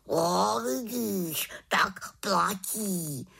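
indignant pet raven, high and slow; a huffy old bird who prefers the warm room; grumpy raven. Acted. Raven agrees.

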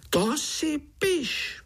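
very high, slow, tiny-fly wheeze; high wheezing taunt; fly groom hissing. A narrator's reading. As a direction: hiss it out as a little insect. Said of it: "sýpal mušák".

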